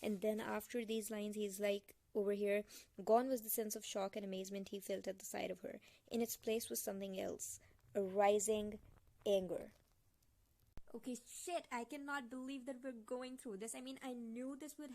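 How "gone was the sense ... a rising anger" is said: low, firm read-aloud voice; emphatic novel narration; story narration. A narrator's reading. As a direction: read it out weightily, landing on the last word.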